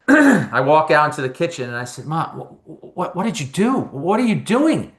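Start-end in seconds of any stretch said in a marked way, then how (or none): 2.0-4.9 mad at mom. Retold or imitated. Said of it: "as mad as I, I was in that moment at my mother".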